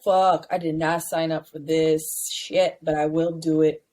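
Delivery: low, resigned retold reply; reluctant agreement.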